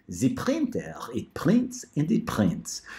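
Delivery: a lightly put-on printer voice, slowing at the end; a hint of a talking printer. Mom doing the printer voice her daughter likes. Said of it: "ah, the printer voice".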